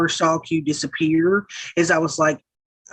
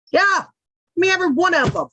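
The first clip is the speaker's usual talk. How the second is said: high, hammed-up grabby demand; mock greedy demand; 12 semitones higher, faster than usual. Streamer grabbing offered gold pills, mock greedy demand. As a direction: jokingly claim the lot, pitched high.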